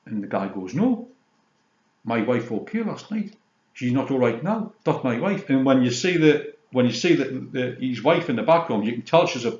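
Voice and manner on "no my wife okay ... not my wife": laundrette man. Retold or imitated. Retelling the laundrette scene.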